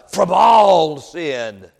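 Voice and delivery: "all" drawn out and loud, then dropping; emphasis on all. Real, not acted. Preacher quoting First John to the congregation, heavy emphasis on "all". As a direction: set "all" apart with weight. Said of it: "Did I put enough emphasis on the word all?".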